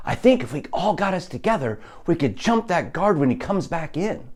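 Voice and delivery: a hint of an urgent captive proposing a plan; other prisoner. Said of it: "I use the other prisoner that was speaking earlier".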